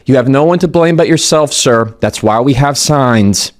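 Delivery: smug, talking down to him; condescending. Retold or imitated. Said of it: "the tone came across was so condescending".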